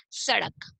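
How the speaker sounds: "सड़क" opening on s, tongue at the teeth; "सड़क" with a careful dental first sound. Shown as a demonstration. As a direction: model the s at the start of "सड़क". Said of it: "दांतों से touch करते हुए बोलेंगे".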